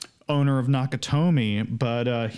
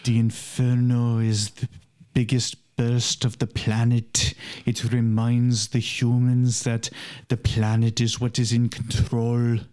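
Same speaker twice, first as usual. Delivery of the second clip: Werner Herzog. Retold or imitated. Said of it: "listening to him do his narration".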